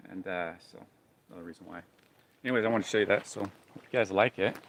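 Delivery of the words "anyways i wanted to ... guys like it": loud joking salesman pitch; mock sales pitch. Pitching the belt to viewers in a loud infomercial voice.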